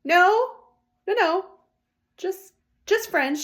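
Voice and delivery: flustered denial. Retold or imitated. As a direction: insist loudly you're just friends. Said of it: "we're like".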